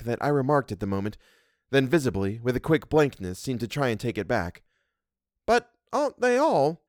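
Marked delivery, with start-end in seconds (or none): 5.5-6.8 high, puzzled housekeeper's voice; a kindly servant, taken aback; Missus Gross voice. A narrator's reading. Housekeeper asks the governess, surprised.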